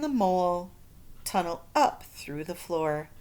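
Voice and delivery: put-on lively read-aloud to children; storybook reading. A narrator's reading. Teacher reading a picture book to her class. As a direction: read it like story time for kids.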